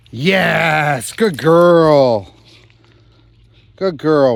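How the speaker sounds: praising a dog. Real, not acted.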